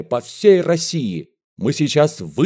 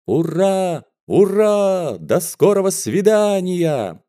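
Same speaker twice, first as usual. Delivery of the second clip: cheering farewell; 8 semitones higher, slower than usual. A narrator's reading. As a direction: cheer her out.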